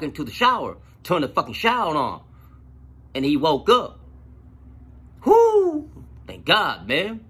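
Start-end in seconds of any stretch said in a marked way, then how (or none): 5.2-5.9 high, loud burst of relief; sudden high whoop of relief; relieved whoop. Retold or imitated. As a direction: let the relief fly out. Relief that the man woke up.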